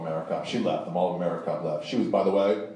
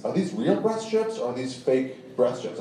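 slow, higher-pitched, REAL and FAKE set against each other; slow pointed question; 4 semitones higher than usual. Trooper questions the comic about the strips, slow and pointed. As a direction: spell out the choice between "real" and "fake", slowly.

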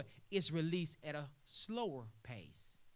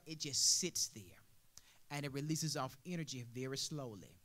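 whispered; 6 semitones lower, 6 dB quieter than usual. Shown as a demonstration. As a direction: drop to a whisper to show slowness. Explaining water releasing energy slowly.

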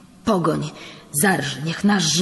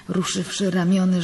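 plain reading voice

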